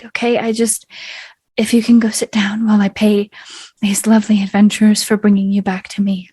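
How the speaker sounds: a hint of a brother soothing his crying sister, quick and tumbling; lightly voiced tender brother. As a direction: reassure her in a rush, dropping to a whisper at the end. Austin comforting his sister.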